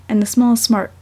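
ordinary delivery

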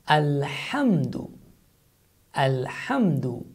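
"Alhamdu" slow, with a throaty h; Arabic pronunciation. Shown as a demonstration. Teacher models the prayer word, slow throaty h. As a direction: draw out "Alhamdu" with a pharyngeal h. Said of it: "you say".

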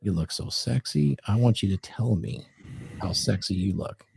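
understated seductive murmur to her; sexy voice. Acted. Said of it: "in that sexy voice".

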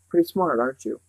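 a mild snarl, sneering and pleased. Acted. The man on the chair mocks Charles Wallace with a mild snarl. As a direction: sneer it with a hint of menace. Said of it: "she detected a snarl".

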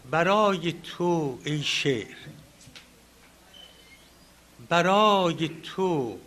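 slow, measured verse with drawn-out words and long pauses; poem recitation. Acted. Speaker recites the honoured poet's verse to the audience, poem recitation. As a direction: declaim the opening words, easing at line ends.

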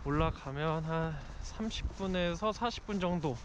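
muffled by cloth mask; speaking behind mask; through a face mask. Real, not acted. Seen 1: White mask covers mouth and nose throughout labelled speech.

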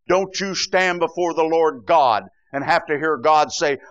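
ordinary talk

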